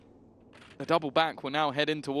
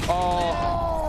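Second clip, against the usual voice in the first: surprised gasp; 13 semitones higher, 3 dB louder than usual. Real, not acted. Caster reacts to near pick.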